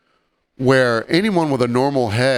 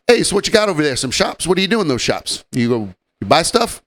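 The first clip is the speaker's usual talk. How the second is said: lightly voiced nosy tourist, higher; clueless tourist husband; 5 semitones higher, faster than usual. Husband asking the storyteller about shops, mock clueless voice. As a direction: imitate a baffled out-of-towner, pitched up.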